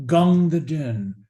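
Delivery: slow, swelling call of the name; reverent tribute. Acted. Soldier honouring his water carrier, slow and reverent. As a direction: savour the name with admiration. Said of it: "And finally says".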